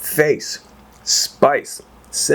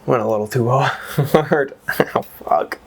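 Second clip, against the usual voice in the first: in pain; 2 semitones higher, slower than usual. Real, not acted. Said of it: "I actually really hurt my hand".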